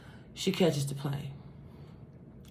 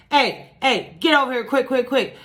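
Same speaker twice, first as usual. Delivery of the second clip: put-on urgent child caller; 4 semitones higher than usual. Retold child's urgent emergency call.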